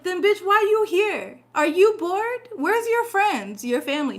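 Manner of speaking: high, loud sarcastic tirade; mock scolding. Reader mocks the troll commenter in a loud high sarcastic rant. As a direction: tear into the troll, loudly and high.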